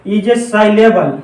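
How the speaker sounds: very slow, word by word for note-taking; slow dictation. Shown as a demonstration. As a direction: spell it out slowly so they can write. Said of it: "ऐसे लिखिए". (धीरे-धीरे लिखवाते हुए)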